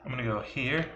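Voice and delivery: whispered, sneaky; whispering. Real, not acted. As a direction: whisper it like a secret move. Sneaky move in game.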